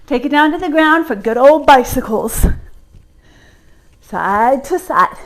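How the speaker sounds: winded coach cues; out of breath. Real, not acted. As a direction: talk while short of breath. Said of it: "I'm getting out of breath".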